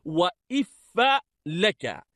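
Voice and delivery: "وإف" with i first, a after the f; kasra then fatha. Shown as a demonstration. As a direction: say "وإف" as wa-iffa. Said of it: "بكسر الألف وفتح الفاء". (نطق "وإف" بكسر الألف وفتح الفاء)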